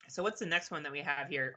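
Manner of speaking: talking while chewing gum. Real, not acted. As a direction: chew gum as you speak. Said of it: "I'll stop chewing my gum".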